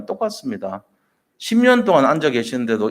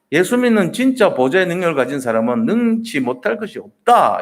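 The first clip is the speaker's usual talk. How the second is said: clear and confident; 4 semitones higher than usual. Retold or imitated. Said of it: "분명하고 당당하게 말씀하시는".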